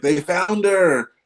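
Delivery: high, very slow joyful exclamation; stretched-out happy shout; excited cry. Retold or imitated. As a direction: burst out as if the lost girl was just found. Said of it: "I'll be like".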